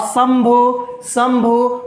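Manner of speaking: शंभू slowly, with a long held m; M sound brought out. Shown as a demonstration. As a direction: draw out the m in शंभू. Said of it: "म आ रहा है ना".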